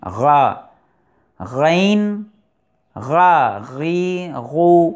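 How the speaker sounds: غا غین غا غی غو each a short throaty syllable; ghain syllable drill. Shown as a demonstration. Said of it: "غین کا مخرج". (غین کی مشق)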